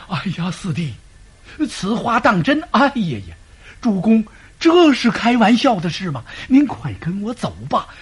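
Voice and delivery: a put-on panicky urging; staged alarm. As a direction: play up the fright as a staged act. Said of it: "显出这个惊慌劲儿来".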